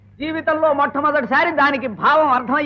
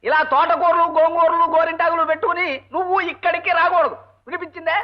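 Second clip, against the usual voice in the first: raised voice, rising at the end; exasperated scolding; 3 semitones higher than usual. Acted. Husband tells hard-of-hearing wife not to come to college, exasperated. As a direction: scold so that she hears it.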